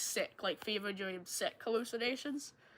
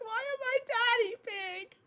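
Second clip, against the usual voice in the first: laughing whine; 11 semitones higher than usual. Retold or imitated. Protesting the nickname, laughing.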